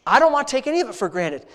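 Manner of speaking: earnest, intimate prayer voice, addressing God like a father; heartfelt spoken prayer. Real, not acted. Pastor leading his congregation in prayer, earnest and intimate. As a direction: pour out thanks to God in an earnest rhythm.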